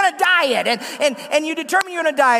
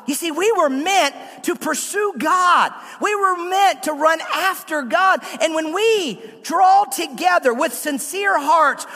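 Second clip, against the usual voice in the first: raised preaching voice, pitch up; preaching shout; 4 semitones higher than usual. Real, not acted. Pastor calling church to pursue God, shouting. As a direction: call it out to the congregation.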